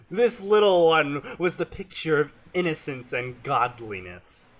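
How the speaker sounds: Southern storyteller's narration; different Southern accent. Acted. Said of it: "a completely different Southern accent".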